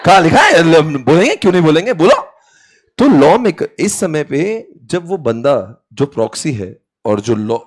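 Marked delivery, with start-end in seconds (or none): 0.0-2.3 loud, high mock outrage; acted indignant protest. Teacher acts out the argument over speaking and writing, acted indignant protest. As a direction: argue back hotly, half laughing.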